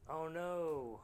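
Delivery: high, loud mock alarm at losing his robots; villain hams up losing two Doombots, high and loud; mock dismay. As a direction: yelp it like a hammed-up villain who lost his minions. His Doombots just got destroyed.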